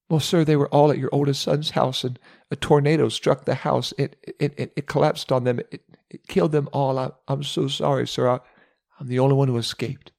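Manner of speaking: high, shaky stammer of grief; can barely get the words out; stammering servant. Acted. The servant stammers to Job how his children died, shaken.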